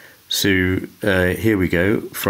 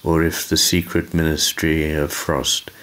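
measured poetry reading with lingering pauses; unhurried, thoughtful reading of verse; poem recital. Acted. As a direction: recite it reflectively, letting each line settle. I'm going to read a poem.

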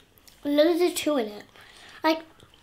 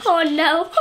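laughing. Real, not acted. Laughing at friend's sour nose.

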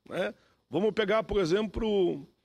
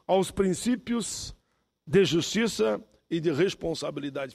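measured, deliberate parliamentary address; formal speech. Real, not acted. Senator addresses the chamber on income tax tables, formal speech. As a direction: deliver a prepared statement in separated, weighted phrases.

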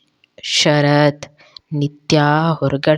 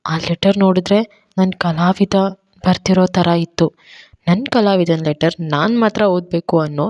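fake remorse. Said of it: "ನಾಟಕ ಮಾಡ್ಕೊಳ್ತಾ ಹೇಳುತ್ತಿದ್ಲು".

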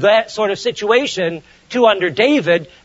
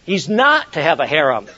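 usual speaking voice

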